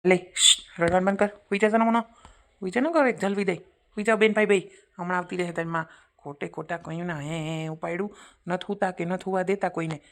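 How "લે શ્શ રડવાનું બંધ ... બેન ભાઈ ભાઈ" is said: louder, firm shush; hushing scold. Acted. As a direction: hush the crying child firmly. Hushing crying child. (રડતા બાળકને ચૂપ કરાવવું)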